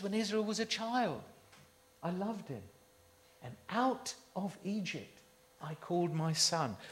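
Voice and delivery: preacher softly repeating God's love for Israel; tender quote. Retold or imitated. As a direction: ease off and let the love show. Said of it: "He says".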